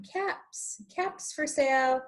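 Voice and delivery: peddler calling again as he heads home. Acted. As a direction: peddler calling his wares walking back to town. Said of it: "walked back into town calling".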